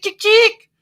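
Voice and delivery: high, loud mock chicken cluck; squawked chicken imitation. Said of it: "running around like chick".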